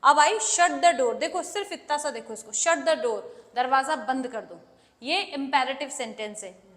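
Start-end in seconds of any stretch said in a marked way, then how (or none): 2.5-3.5 slow, firm command; sounds like an order. Shown as a demonstration. Teacher showing the bare command, slow and firm. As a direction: give it as an order. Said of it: "जो order जैसा sound हो रहा है".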